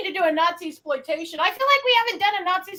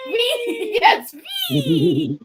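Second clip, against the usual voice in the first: put-on high, gleeful German-accented cheer; 7 semitones higher, much slower than usual. Cohost delighted by her German cheer, high German accent. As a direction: laugh and squeal it with a German V. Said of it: "I just hear in a German accent".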